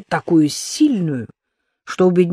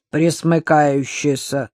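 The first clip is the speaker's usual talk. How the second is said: невозмутимо; slower than usual. Acted. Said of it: "невозмутимо сообщил фюрер".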